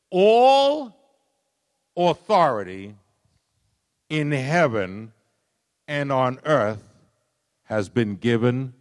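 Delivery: proclaiming loudly. Acted. Preacher booming Jesus' words of authority to the congregation. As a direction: declare it with full authority.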